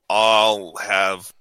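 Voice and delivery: slow, reluctant pick, drawn out; hesitant, let-down delivery; disappointed. Real, not acted. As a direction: drag it out like a letdown. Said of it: "You sound so disappointed".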